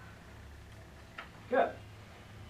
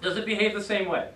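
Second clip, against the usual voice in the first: lightly acted student question, raised and louder; puzzled student; 3 semitones higher, 5 dB louder than usual. Imagined student asks teacher about rough breathing mark, puzzled. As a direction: ask it as a keen learner would. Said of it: "You're gonna say".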